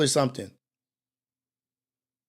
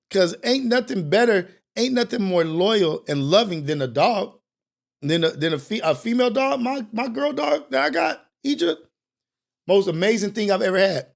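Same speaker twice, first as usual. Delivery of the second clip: louder and higher, gushing about his dog; excited rave; 5 semitones higher, 4 dB louder than usual. Real, not acted. Host gushing to viewers about his dog Egypt, excited and loud. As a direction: hype up the dog he loves.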